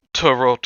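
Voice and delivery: "Tarot" said with its final T sounded; joke mispronunciation. Acted. Imitating a cartoon cashier for friends, "Tarot" mispronounced with a hard final T. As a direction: deliberately sound the last T in "Tarot". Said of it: "Why are you pronouncing it like that?".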